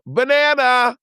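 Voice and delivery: very high squeaky cry; high silly squeal; toothless cry. Retold or imitated. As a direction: squeal it as if missing teeth. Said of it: "pull out her teeth and go".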